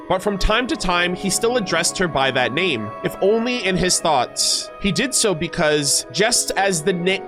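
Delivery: deliberate story reading; lore narration. Acted. Streamer reading how he still addressed her, measured narration. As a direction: narrate with careful, lifted phrase openings. Reads character lore aloud.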